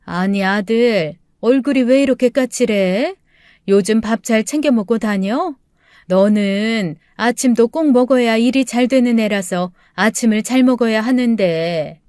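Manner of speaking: lightly voiced mother fussing over her son; mildly worried mother. Mother asks son about eating properly, mildly worried. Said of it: "걱정스러운 마음에 물어보았죠".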